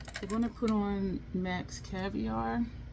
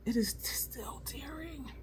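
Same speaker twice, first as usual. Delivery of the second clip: whisper; 6 semitones higher, 7 dB quieter, slower than usual. Real, not acted. Eye tearing up, hushed.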